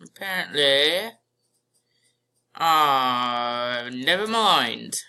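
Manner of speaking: put-on playful British accent. Gamer drifting into it for no reason, British accent. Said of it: "I don't know why I'm talking in a British accent".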